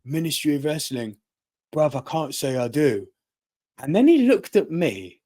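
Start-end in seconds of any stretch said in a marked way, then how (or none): 0.0-3.1 lightly imitated Essex accent; Will, Essex accent. Wrestler reading a fan's T-shirt, imitated Essex accent. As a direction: put on a touch of Essex. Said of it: "Will, in his Essex accent".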